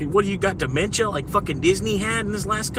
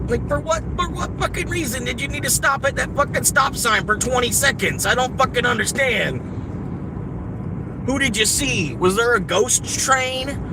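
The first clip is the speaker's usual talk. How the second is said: raised, exasperated rant at another driver; angry driver rant; 5 semitones higher than usual. Real, not acted. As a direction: vent at the idiot who sat at the stop sign. Ranting at a stopped driver.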